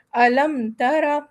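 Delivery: الم ترا slow, meem said clearly with no nasal hold; slowly, a clean meem in الم; clear meem recitation. Shown as a demonstration. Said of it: "تو ہم یہاں پڑھیں گے".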